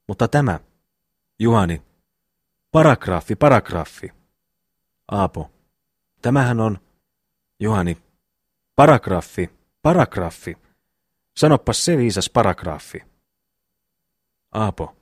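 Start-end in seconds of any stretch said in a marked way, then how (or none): 2.7-4.1 loud insistent cry; shouting the word. Acted. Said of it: "Huutelethan tuossa". 8.7-13.0 shouting the word. Acted. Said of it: "Miksi kirkut".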